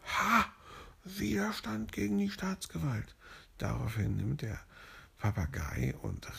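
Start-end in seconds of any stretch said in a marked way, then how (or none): 0.1-3.2 high, gleeful police officer; higher-pitched gleeful arrest cry; triumphant policeman. Acted. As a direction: crow it like a smug cop who caught him. Police triumphs over the leopard.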